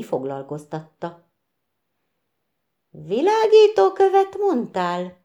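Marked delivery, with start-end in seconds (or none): 2.9-5.2 high, startled, disbelieving question. A narrator's reading. Mr Pic, stunned, asking about the glowing stone. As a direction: ask it stunned, voice jumping up. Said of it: "Pic úr megdöbbenve torpant meg".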